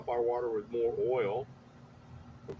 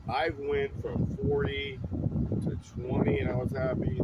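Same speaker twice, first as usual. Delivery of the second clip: excited; 5 dB louder than usual. Real, not acted. Proud of betting less.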